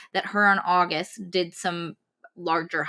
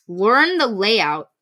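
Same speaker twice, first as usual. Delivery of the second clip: exasperated; 4 dB louder, much slower than usual. Real, not acted. Exasperated emphasis on absurd plan.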